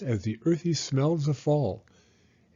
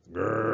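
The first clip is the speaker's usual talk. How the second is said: dog growl; 3 semitones lower than usual. A narrator's reading. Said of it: "spelled Mister Barker's growl".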